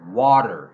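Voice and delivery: water said loud, t as a d; water, flapped t, stressed; flap t demo. Shown as a demonstration. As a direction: say water like wadder. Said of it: "It sounds like a D".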